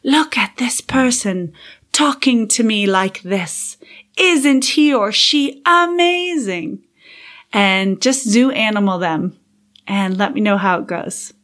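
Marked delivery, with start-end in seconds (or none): 0.0-6.8 light British accent. Shown as a demonstration. Podcast host demos playful Attenborough-style observing, light British accent. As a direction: play a lightly British wildlife narrator marvelling at a person. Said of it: "put on your best British accent".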